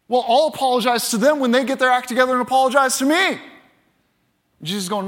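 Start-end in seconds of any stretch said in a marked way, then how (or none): 0.1-3.4 rushed, higher-pitched mock protest; indignant. Believer told by Jesus to apologize, mildly indignant. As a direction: balk at it in one fast run.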